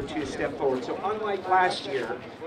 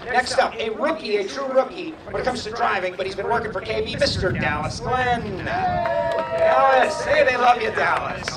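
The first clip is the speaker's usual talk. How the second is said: arena announcer introduction; 4 semitones higher, 4 dB louder than usual. Real, not acted. Announcer presents a rookie to cheering fans, showman introduction. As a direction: build up to the driver's name.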